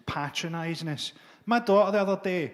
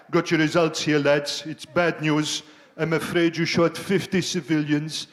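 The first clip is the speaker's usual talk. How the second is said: mock army instructor, matter-of-fact; 4 dB louder than usual. Instructor briefing recruits on their scores, breezy and matter-of-fact. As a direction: read out the scores like a cheery drill sergeant.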